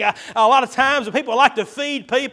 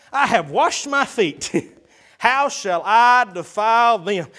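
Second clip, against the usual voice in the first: drowsy excuse; slower than usual. Acted. Wife's excuse read slowly.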